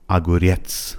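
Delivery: اگوریتس with the weight on ریتس; stress on last syllable. Shown as a demonstration. Teacher repeating for learners, اگوریتس stressed on the final syllable. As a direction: lean on the end of اگوریتس. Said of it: "فشارش روی رتس هستش".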